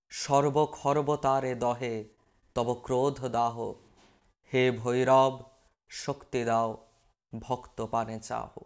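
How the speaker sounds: slow, low-pitched verse recitation; poem recitation. Acted. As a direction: recite the lines slowly and evenly, held back. Quotes the song's verse, recited. (ধীর, নিচু স্বরে কবিতা আবৃত্তি)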